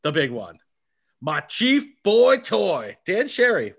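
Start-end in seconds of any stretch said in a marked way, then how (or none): 1.2-3.8 announcer intro. Pretend. Mock grand intro of cohost.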